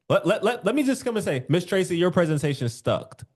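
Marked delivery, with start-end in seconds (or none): 1.5-3.2 flat blunt put-down; blunt, rude. Shown as a demonstration. Coach shows an offensive tone to a client. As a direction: deliver the insult straight. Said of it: "the way that I said it in my tone".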